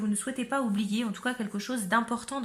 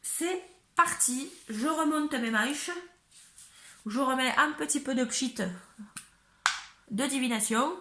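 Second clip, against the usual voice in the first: put-on accent du sud enjoué; southern French accent. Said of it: "Je sais pas pourquoi je prends cet accent du sud".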